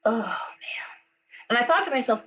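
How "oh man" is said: breathy whispered realization; whispered oh man, hit by the news; stunned whisper. Retold or imitated. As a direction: let it out under your breath, shaken. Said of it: "I was like".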